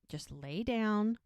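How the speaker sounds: slow, measured soothing; acted-out careful calm; trying to stay calm. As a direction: ease them down slowly and calmly. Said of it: "she's trying to be very calm".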